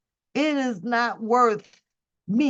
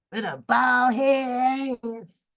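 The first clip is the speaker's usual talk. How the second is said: drawn-out, slow jeer; mocking; much slower than usual. Real, not acted. Streamer ridiculing a woman's bald head, mocking. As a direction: stretch the insult out slowly.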